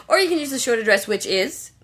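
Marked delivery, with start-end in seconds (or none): 1.1-1.7 mid-yawn; words stretched by a yawn. Real, not acted. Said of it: "That was yawning".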